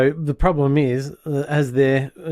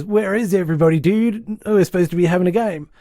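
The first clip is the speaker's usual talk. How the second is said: higher, fast surfer dude; 5 semitones higher than usual. Retold or imitated. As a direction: breeze in like a clueless dude.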